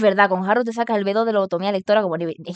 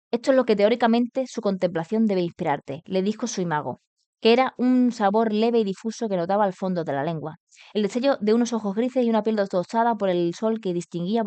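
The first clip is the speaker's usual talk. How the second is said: even, continuous storytelling delivery; story narration. A narrator's reading. Streamer reads the novel to viewers, story narration. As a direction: read the novel aloud.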